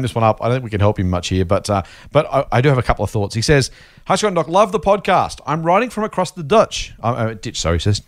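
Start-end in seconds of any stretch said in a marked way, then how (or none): 4.1-5.4 put-on reading in a slight Kiwi accent; lightly slipping into a New Zealand accent. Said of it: "That just went into my Kiwi accent then". 5.5-6.9 put-on Kiwi accent, "Dutch" with a short flat u. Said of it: "That just went into my Kiwi accent then".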